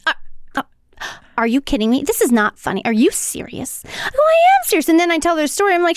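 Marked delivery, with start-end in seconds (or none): 0.1-3.8 imitating Aunt Minty's stuttering disbelief; aunt's voice. Retelling to a friend, a mild mock of the aunt's stunned disbelief. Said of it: "This is her voice". 4.2-4.9 insisting. Retold or imitated. Insisting to shocked aunt.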